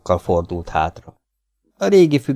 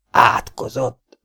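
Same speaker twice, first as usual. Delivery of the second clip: slow, higher, groaning curse; groaned curse; 5 semitones higher, 3 dB louder, much slower than usual. A narrator's reading. Old man cursing as he collapses: slow groaned curse. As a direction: drag the word out as if defeated. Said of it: "nyögte az öregember".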